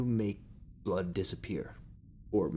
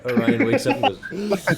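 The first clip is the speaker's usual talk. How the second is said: laughing; 12 semitones higher, 9 dB louder than usual. Real, not acted. Narrator laughing loudly.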